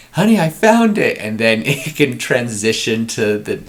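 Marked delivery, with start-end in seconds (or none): 0.1-1.2 dad voice. Acted. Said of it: "I just imagine just".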